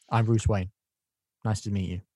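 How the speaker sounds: wooden self-introduction; Bruce Wayne. Retold or imitated. Co-host mocking the casting, wooden greeting. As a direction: stiff mock greeting with no charisma. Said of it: "most wooden Bruce Wayne".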